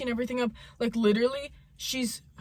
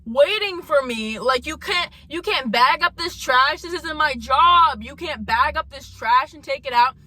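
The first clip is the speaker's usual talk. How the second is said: raised, louder voice of disbelief; indignant rant; 4 semitones higher, 4 dB louder than usual. Real, not acted. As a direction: complain in exasperation, leaning on the key words. Indignant rant at idle coworker.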